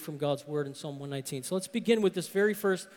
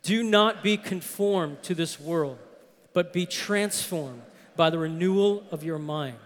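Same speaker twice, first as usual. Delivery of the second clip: congregation reading aloud together; many voices in unison; 3 semitones lower than usual. Real, not acted. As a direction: read it aloud as a group. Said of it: "let's read this".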